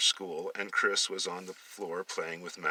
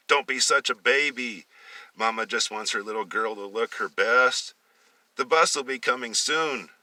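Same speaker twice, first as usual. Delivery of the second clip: lightly voiced mother, a bit louder; a hint of a bossy mother; 3 semitones higher, 5 dB louder than usual. Mother brushing off her son's protest, mildly louder.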